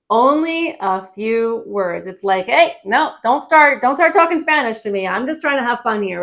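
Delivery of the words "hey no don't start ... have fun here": mock pleading tourist. Tourist begging driver stop Spanish.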